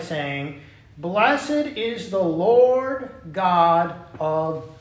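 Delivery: measured, weighty Bible reading; scripture reading. A narrator's reading. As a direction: read the verse out solemnly, stretching key words. Reads scripture aloud.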